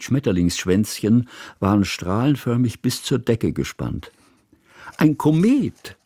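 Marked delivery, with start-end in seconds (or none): 5.0-6.0 high, slow, delighted exclamation; a child cries out in wonder at the kite; excited cry. A narrator's reading. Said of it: "rief Hanaka". (begeistert ausgerufen, hoch und gedehnt)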